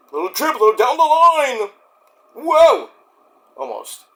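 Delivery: high, rising hopeful call; excited reaction. Real, not acted. Fan following a ball game, excited cheering call.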